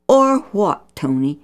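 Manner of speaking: mild scolding. Acted. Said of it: "Mom scolded".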